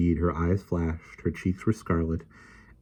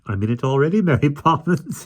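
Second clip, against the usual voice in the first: quavering voice; 8 semitones higher, 3 dB louder than usual. A narrator's reading. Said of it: "he said in a quavering voice".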